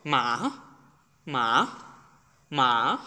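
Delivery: মা dropped from top pitch to bottom; steeply falling মা; falling fourth tone. Shown as a demonstration. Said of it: "one লেভেলে চলে আসতে হবে".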